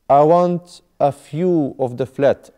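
WANT stretched slowly and loud; teacher's slow model line; slow model sentence. Shown as a demonstration. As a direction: say "I want a few of the flat" slowly, leaning on want. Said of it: "I want a view".

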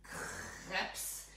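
"crepes" said slowly, with a French r; French pronunciation. Shown as a demonstration. Baker showing viewers how to say it in French, French-style "crepes". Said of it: "You have to say crepes because it's French".

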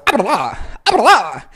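"verdad" opens from choked to voiced with a falling swoop; releasing the voice. Shown as a demonstration. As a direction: let the voice out on the last "da". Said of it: "ahí sacan la voz".

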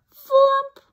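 high, loud breathy flump; loud sound word. A narrator's reading. Reading the landing noise to a child, loud.

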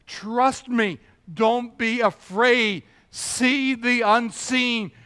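slow, earnest reassurance; Jesus reassuring Jairus. Acted. Jesus urging Jairus, slow and earnest. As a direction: lean in and slow down, steady and sure.

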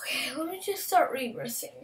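whispered with hiccups; hiccuping. Real, not acted. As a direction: talk between hiccups. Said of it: "I'm also hiccuping".

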